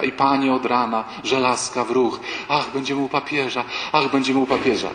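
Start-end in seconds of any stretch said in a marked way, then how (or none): 2.5-3.6 a hint of gushing ladies; mildly hammed-up rapture; mock exalted sigh. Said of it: "wyluzujcie... bez takiej egzaltacji". 3.9-4.9 lightly hammed-up rapture; mock exalted sigh. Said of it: "bez takiej egzaltacji".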